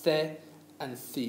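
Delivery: "The and thi" echoed as theh and thee; tongue between the teeth on "The" and "thi". Shown as a demonstration. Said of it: "we stick our tongues out".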